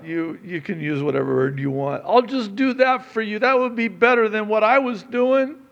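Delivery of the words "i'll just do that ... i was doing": loud, high pleading son, lightly voiced; penitent son. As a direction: beg to be taken back as a worker. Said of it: "He was rehearsing".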